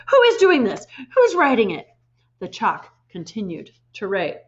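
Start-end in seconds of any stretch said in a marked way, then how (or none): 0.1-1.9 louder, much higher yell. A narrator's reading. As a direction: shout at the whole room. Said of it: "she yelled at nobody".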